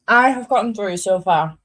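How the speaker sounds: talking while chewing; words round a mouthful of gum; mouth full. Real, not acted. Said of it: "I've just put chewing in my mouth".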